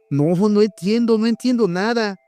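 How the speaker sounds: incredulous stammer. Acted. José stammers at the wolf in high disbelief. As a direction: stammer it out, unable to believe. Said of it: "balbucié incrédulo".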